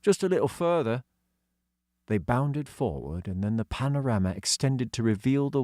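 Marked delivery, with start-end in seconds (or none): 0.0-1.0 put-on high, light voice for young Doggy; young boy voicing; boy character voice. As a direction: lift into a kid's voice. Child voice.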